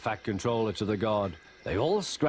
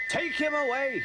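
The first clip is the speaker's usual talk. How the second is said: bellowing. A narrator's reading. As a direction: roar the order across the yard. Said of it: "he bellowed".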